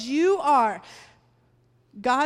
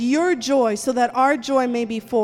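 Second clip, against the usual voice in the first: rising, loud fervent prayer over the people; 4 dB louder than usual. Real, not acted. Pastor praying over the congregation, loud and fervent. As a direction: pray it out boldly, pressing on each line.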